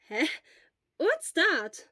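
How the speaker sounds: a worried friend checking in; Hisashi. A narrator's reading. Hisashi puzzled.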